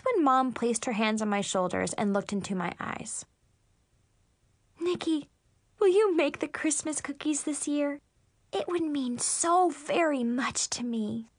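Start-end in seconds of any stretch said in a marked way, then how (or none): 4.8-11.3 lightly voiced, sweetly pleading mother; a hint of earnest mom, slowing at the end. Mom asking daughter to bake, gently pleading.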